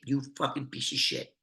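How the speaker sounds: menacing whisper at the end of the threat; whispered insult. Retold or imitated. Mad Dog ending his threat to Brian in a whisper. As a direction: drop to a whisper for the final insult. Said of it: "so now Mad goes".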